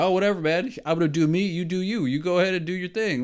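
high, loud, careless "whatever, man" voice; careless friend impression. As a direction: toss it off like a friend who lets anything slide. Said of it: "He's like".

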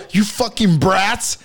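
slow, high, loud mock snarl; tweaked-out stepdad yell. Stepdad bursting out of the room, slow mock yell. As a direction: drag it out like a wired, angry boyfriend. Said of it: "He goes".

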